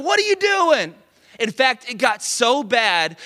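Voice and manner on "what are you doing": indignant shout. Retold or imitated. Pippen yelling at coach.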